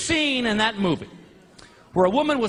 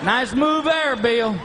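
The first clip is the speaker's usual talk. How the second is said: mocking dog voice; 3 semitones higher, much slower than usual. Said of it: "Just like".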